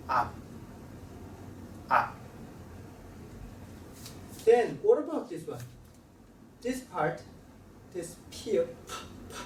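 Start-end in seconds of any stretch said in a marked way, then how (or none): 0.1-2.2 Up with the lips shut at the end, no puff of air; unreleased final p. Shown as a demonstration. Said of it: "Close your mouth and stop releasing your sound". 7.9-9.3 p with a clear puff of air; released p. Shown as a demonstration. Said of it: "We have to release our air".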